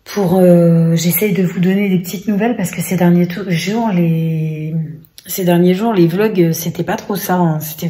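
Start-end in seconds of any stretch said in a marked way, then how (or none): 0.0-4.7 voice cutting out. Real, not acted. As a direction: voice breaking off mid-word on sore throat. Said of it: "plus je le dis et plus ça le fait".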